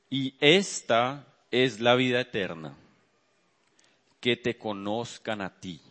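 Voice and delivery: measured verse reading with long pauses; scripture reading. Real, not acted. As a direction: read the verse out solemnly, phrase by phrase. Reads scripture aloud to congregation.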